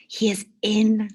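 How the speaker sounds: secretive stage whisper. Acted. Mister Kelly revealing his pocket secret, whisper. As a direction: tease the surprise in a hush.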